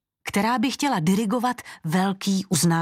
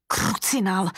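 ordinary delivery

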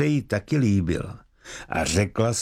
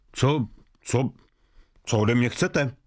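stammering threat. Acted. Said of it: "Snažil se mladík výhružně koktat".

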